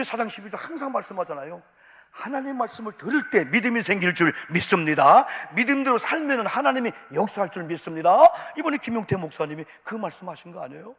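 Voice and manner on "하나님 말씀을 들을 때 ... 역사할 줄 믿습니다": loud, ringing declaration of faith; preaching proclamation. Real, not acted. Preacher declaring faith to the congregation, loud and ringing. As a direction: proclaim it to the whole room.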